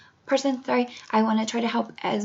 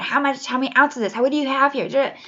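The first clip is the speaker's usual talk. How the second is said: higher, louder mock interrogation; retold police questioning, raised voice; demanding officer; 3 semitones higher, 3 dB louder than usual. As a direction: fire questions like a pushy cop. Officers aggressively questioning her.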